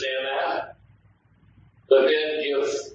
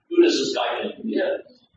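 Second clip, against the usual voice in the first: higher-pitched indignant scoff; 9 semitones higher than usual. Acted. Preacher voicing the doubters of Jesus in his hometown, scoffing. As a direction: voice a doubter's affronted question. Voicing sceptics of Nazareth in retelling.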